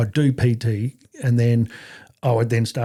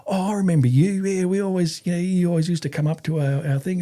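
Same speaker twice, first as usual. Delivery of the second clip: high-pitched, eager retold reminiscence; excited recognition; 7 semitones higher than usual. Former infantryman remembers the dog handler, excited. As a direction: imitate someone suddenly remembering an old comrade, voice well up. Quoting colleague's delighted recognition.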